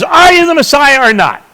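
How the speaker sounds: high-pitched exasperated demand. Acted. High priest questioning Jesus at the trial, exasperated. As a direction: press the question in mild exasperation. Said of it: "in exasperation, Caiaphas says".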